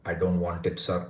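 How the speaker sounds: put-on movie-style Indian accent; mock a film caricature of an Indian accent; lightly put-on stereotypical Indian accent; stereotyped Indian accent. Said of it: "the stereotypical thing that, that's shown in movies".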